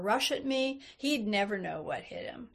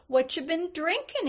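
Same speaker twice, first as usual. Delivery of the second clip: higher-pitched, easy curiosity; light, interested question; 7 semitones higher, 3 dB louder than usual. A narrator's reading. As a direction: ask lightly, as an interested old man. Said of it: "he asked lightly, with interest".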